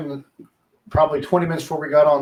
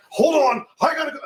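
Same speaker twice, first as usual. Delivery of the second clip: put-on much higher, rushed away from the kids; hurried brush-off; 11 semitones higher than usual. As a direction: cut the child off, already leaving. Rushing off with phone call.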